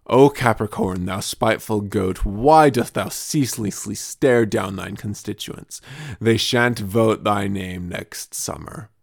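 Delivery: slow solemn proclamation; pompous horoscope oracle; mock-archaic oracle. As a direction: declaim it like an old oracle.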